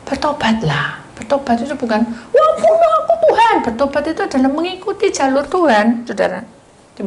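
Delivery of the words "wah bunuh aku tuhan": high, loud, hammed-up wail with a laugh; mock the dramatic repenter; a much higher, laughing cry of mock despair. Mocking a wrong idea of repentance.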